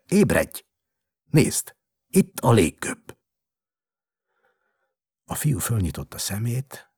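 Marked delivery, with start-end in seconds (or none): 0.1-3.2 loud, urgent wake-up calls; shouting at child. A narrator's reading. Doctor rousing the sick boy to see the balloon, shouting. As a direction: call out in separate, forceful bursts. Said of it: "kiabált a gyerekre, nem épp orvosi tapintattal".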